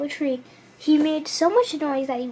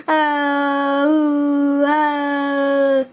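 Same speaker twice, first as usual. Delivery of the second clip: bellow; 4 dB louder than usual. A narrator's reading. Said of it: "Hippo bellowed".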